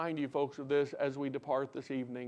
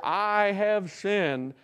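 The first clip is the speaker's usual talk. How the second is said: very slow, drawn-out scripture cry, mildly raised; crying out in confession; 4 semitones higher, 4 dB louder, much slower than usual. Acted. Preacher quoting Job's confession to God, slow crying out. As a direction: stretch each word like a solemn confession from the pulpit. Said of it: "as Job cries out there".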